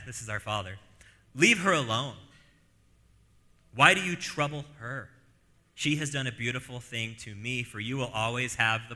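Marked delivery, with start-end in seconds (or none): 1.4-7.6 louder firm rebuke; a touch of firm, loud protection; Jesus rebuking. Retold or imitated. Jesus defending Mary against the disciples, firm and loud. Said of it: "But Jesus says".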